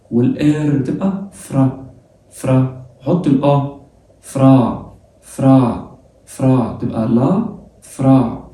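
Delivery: فرا said with the French r, repeated slowly; French phrase drilled. Shown as a demonstration. Teacher drilling French pronunciation for students: فرا with a throaty r. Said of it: "نطبق النطق".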